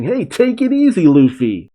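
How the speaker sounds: lightly acted high-pitched plea; Chopper. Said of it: "Chopper in his Kung Fu point carrying Bonnie saying".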